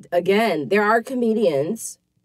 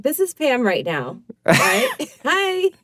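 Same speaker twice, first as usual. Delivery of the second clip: put-on perky white girl voice, high on the hi; 4 semitones higher than usual. Shown as a demonstration. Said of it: "White voice".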